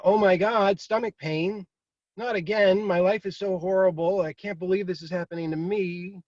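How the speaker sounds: overdramatize a stomach ache into doom, then let it sink; hammed-up despair. Mock dramatic self-pity over pain.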